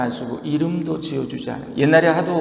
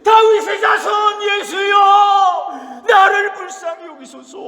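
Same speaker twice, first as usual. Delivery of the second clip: much higher, loud, drawn-out desperate shout; louder cry; 5 dB louder than usual. Acted. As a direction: scream it out over the crowd, stretching 예수여 very slowly. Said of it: "더 크게 소리".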